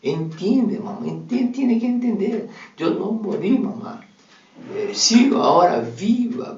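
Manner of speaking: daughter's spirit gently pleading with her grieving mother; dead daughter pleading. Acted. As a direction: beg your mother to stop crying, from beyond. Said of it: "Su hija dijo".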